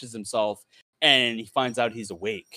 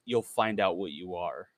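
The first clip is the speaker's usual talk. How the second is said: low, soft, ominous voice in his head; eerie voice in the head, softer; ominous creature voice; 6 semitones lower, 6 dB quieter than usual. Acted. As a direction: make it a creepy climax, lower and softer. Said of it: "trying to make it climactic".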